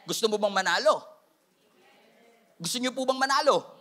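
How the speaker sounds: ordinary talk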